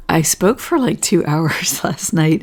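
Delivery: real hoarseness slipping into a near-whisper; hoarse voice. Real, not acted. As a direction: voice gone to a worn rasp after talking two hours. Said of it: "you can hear my voice is hoarse".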